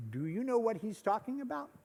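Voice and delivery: faint and distant, away from the mic; spoken turned away from the microphone; a stage whisper lost off-mic. Real, not acted. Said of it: "I forgot my mic's on this side".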